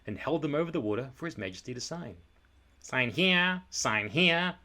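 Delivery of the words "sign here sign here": urging. A narrator's reading. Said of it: "old Droon would say".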